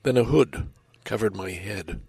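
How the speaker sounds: measured poem recital, narration level and dialogue lifted; dramatic poem reading. A narrator's reading. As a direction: tell the poem as a tense little story, quotes acted out. Reads a poem aloud.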